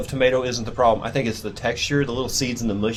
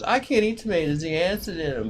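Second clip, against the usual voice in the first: mock excuse; 7 semitones higher than usual. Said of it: "that was my excuse, was".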